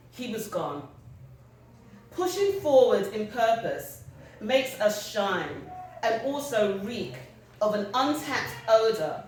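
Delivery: measured literary reading, phrase by phrase; poem recitation. Acted. Writer sharing a piece about a funeral, measured recitation. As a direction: read it out with deliberate pauses between images. Reads own piece aloud.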